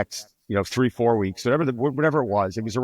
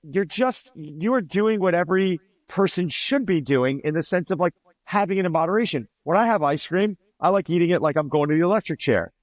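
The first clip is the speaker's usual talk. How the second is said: excited and higher, pushing the point; animated pep talk; 7 semitones higher than usual. Retold or imitated. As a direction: persuade her with energy.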